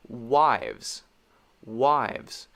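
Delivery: "Wives" with a fast lip W and teeth-on-lip V; quick W and V. Shown as a demonstration. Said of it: "It's very fast".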